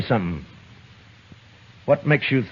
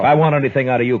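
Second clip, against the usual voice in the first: angry snap; 6 semitones higher, 7 dB louder, much faster than usual. Acted. Marshal cuts off Carter.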